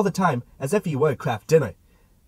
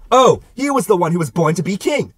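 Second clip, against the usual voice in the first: excited; 3 semitones higher, 6 dB louder than usual. Acted. Admiring the quail.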